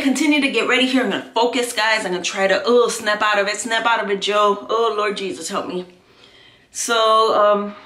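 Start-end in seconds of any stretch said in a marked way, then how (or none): 2.6-5.9 self pep talk. Real, not acted. Scolding herself out of the emotion.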